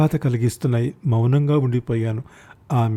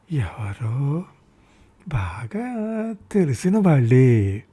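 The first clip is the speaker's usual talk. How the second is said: hushed hesitant; 2 semitones higher, much slower than usual. Acted. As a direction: drop to a near whisper, unsure. Mother hesitantly names a stranger. (గుసగుసగా, తడబడుతూ)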